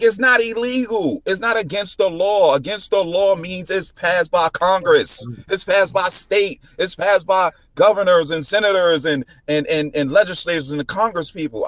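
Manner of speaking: high, insistent lecture on the law; heated legal argument. Retold or imitated. Driver schooling the officer on what illegal means, insistent.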